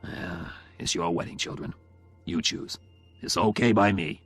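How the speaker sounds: brave face on disappointment. A narrator's reading. Unhappy father to marrying children, bravely resigned. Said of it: "But he spoke bravely".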